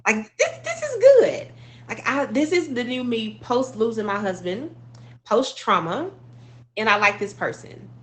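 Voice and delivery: high, bright rush of joy in the new self; giddy delight. Retold or imitated. Widow on a Miami birthday trip, delighted with her new self. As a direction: gush about liking who you've become. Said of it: "I was like".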